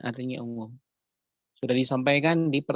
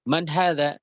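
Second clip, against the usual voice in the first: Man hadza asked with a rise on hadza; asking question; 3 semitones higher, 4 dB louder than usual. Shown as a demonstration. Teacher asking the class in Arabic, questioning. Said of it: "Siapa ini?".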